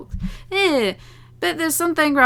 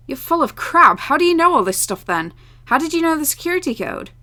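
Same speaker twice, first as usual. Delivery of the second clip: incredulous anger; 6 semitones higher than usual. Acted. Character angrily disbelieving.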